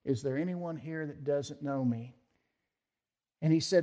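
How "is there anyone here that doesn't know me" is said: lowered, softer aside to a neighbour; low tone. Retold or imitated. Daniel Webster asking the man beside him, in a low tone. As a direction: lean in and ask quietly. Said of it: "He said in a low tone".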